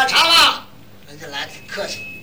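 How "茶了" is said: loud, high Tianjin call for the waiter; Tianjin accent. Retold or imitated. 在上海旅馆里用天津话高声叫人. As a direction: shout it out in Tianjin dialect. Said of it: "我说：".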